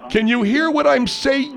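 mouth full. Acted. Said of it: "You got a mouthful of bologna".

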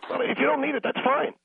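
thin, crackly phone-line sound; crackly cordless phone. Real, not acted. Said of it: "Sounds like you're on a cordless phone".

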